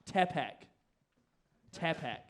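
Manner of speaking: Tapak with a clear first vowel, "TAP-ack"; alternative pronunciation. Shown as a demonstration. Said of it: "is it Tapak or Tapak".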